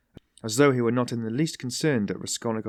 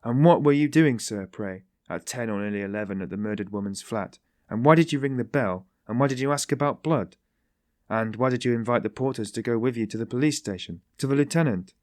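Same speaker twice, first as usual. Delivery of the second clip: mock interrogation.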